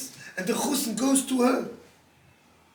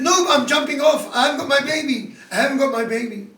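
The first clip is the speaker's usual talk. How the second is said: desperate cry; 2 semitones higher, 6 dB louder than usual. Retold or imitated. Mother refusing comfort, desperate.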